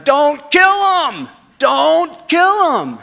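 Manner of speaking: drawn-out, very high yell. Retold or imitated. Buddy below yelling up the tower to stop him, very high and loud. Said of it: "is yelling".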